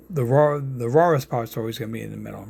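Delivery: New York accent on "raw" and "rawest"; real New York accent on "rawest". Real, not acted. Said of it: "that's my New York accent".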